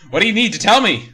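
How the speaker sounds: lightly hammed-up demonic question; quick, high, mock-sinister Mac; slightly demonic voice. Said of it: "in a slightly demonic voice".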